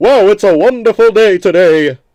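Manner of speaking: very loud, high, belted, over-enunciating each word. Imitating Muhammad Ali reading a Thomas script, enunciating like MLK. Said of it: "He fucking talked like that".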